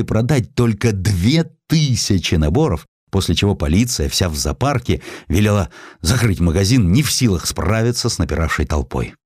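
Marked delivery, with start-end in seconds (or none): none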